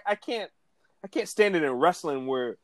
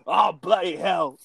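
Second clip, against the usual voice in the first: Drew McIntyre impression; 2 semitones higher, slower than usual. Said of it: "Yo, do the Drew McIntyre".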